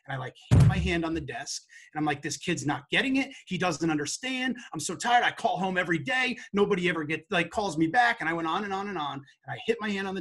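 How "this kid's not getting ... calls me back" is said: louder, exasperated venting at a colleague; retold frustrated outburst. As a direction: replay the rant, fed up and louder. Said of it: "I, I lost it".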